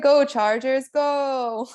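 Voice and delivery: put-on drawn-out Austrian-accented rallying call; Arnold's accent. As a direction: cheer it in an imitated Austrian accent. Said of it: "But in his accent".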